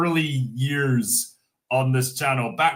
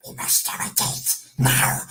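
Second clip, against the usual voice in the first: hissed creature whisper; whispered Gollum. Acted. Still playing Gollum for chat, whispering. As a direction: breathe it like a sneaky creature. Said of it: "Gollum voice".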